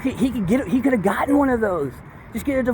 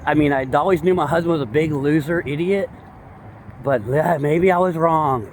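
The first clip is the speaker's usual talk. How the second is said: mock relieved wife; 3 semitones lower than usual. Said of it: "she's like".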